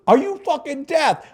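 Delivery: high, drawn-out mock yell; old-school dealer yelling in exasperation, imitated. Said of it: "this guy would yell and swear".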